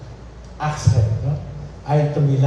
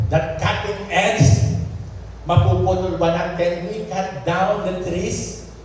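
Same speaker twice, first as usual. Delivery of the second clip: emphatic preaching; 5 semitones higher than usual. Real, not acted. Preacher asking church about the lost axe head, emphatic preaching. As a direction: draw out the question, then answer much higher.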